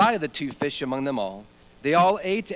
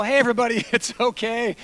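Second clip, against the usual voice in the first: higher, upbeat mock reassurance; forced positivity; 6 semitones higher than usual. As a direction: keep the group's spirits up. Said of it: "trying to remain a positive attitude".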